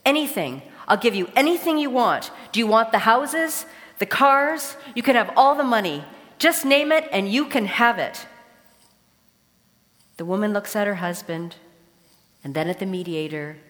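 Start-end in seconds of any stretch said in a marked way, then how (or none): 0.0-8.3 loud, pleading rush, higher, cracking under pressure; desperate outburst. Acted. Husband at the mediator finally cracks, loud and desperate. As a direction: give in completely, almost shouting. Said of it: "the man just cracks and he says".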